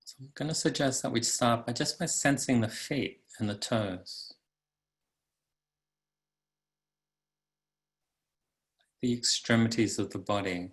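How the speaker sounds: calm, unhurried meditation guide; guided meditation. Acted. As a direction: guide listeners into the body, leaving long pauses.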